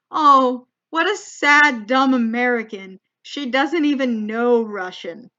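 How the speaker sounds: condescending pity, opening loud and drawn out; mock pity. Boyfriend's dad pitying the dumb American, mock-condescending. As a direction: imitate a pitying elder, slowing at the end. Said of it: "attitude to me of".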